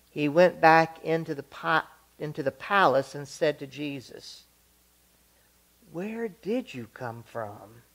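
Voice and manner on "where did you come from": scared question. Acted. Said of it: "he became even more scared".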